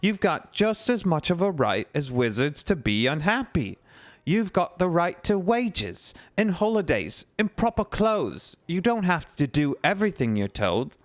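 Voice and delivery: impassioned cry. Acted. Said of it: "Hermione cried".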